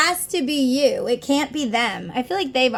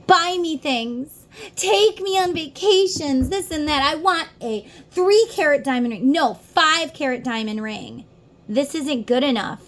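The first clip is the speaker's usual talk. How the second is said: higher, lightly whiny mock demands; mock demanding; 4 semitones higher than usual. Imagined materialistic partner demanding gifts, mock insistent. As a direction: play a grasping partner listing wants.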